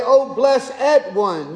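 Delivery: "O blessed one." drawn out in mock King James English, blessed as two syllables; a hint of old King James English, slowly; King James lingo. Shown as a demonstration. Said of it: "you would do the accent a little differently".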